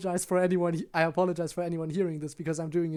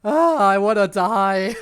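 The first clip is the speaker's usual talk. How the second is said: laughing; 3 semitones higher, 6 dB louder, slower than usual. Real, not acted. Helpless laughter after embarrassing take.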